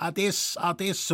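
put-on old man rattling off a quick goodbye; hurried goodbye calls. A narrator's reading. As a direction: call out ades twice quickly as you hurry off. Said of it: "sehr schnell hintereinander ... rufend".

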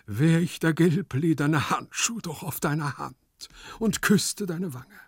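long for the beloved as you recite; lovesick sighing. A narrator's reading. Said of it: "seufzte Gumpellino". (schmachtend, mit erhobener Stimme)

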